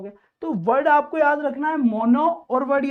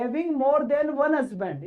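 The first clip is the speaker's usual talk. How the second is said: slow reading; much slower than usual. Shown as a demonstration. Teacher reads phrase slowly.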